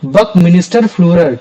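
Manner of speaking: बकमिनिस्टर फुलर drawn out slowly with a falling end; slow name drill. Shown as a demonstration. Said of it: "क्या नाम था उनका?".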